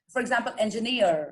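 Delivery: engineer with the final eer drawn out and stressed; engineer as example. Shown as a demonstration. Teacher models engineer for her student, stress on eer. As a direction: engineer said slowly, leaning on the ending eer. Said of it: "ईईआर से एंड हो रहा है".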